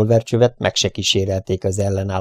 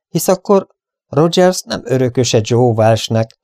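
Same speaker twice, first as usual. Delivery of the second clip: exclaiming; 2 semitones higher than usual. Acted. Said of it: "kiáltott fel Dick".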